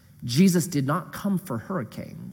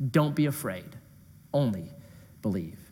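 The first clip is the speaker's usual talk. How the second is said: soft tender reading; 8 semitones lower, 7 dB quieter than usual. Shown as a demonstration. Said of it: "This is the meat verse".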